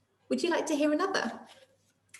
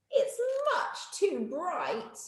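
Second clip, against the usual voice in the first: softer, slow whiny grumble; complaining; 8 semitones higher, 6 dB quieter, much slower than usual. Acted. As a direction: grumble at the glare.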